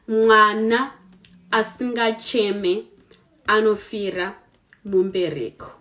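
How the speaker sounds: "Mwana asingacheme anofira mumbereko" said word by word with pauses; Shona proverb, slowly. Shown as a demonstration. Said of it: "the proverb that I am going to teach you".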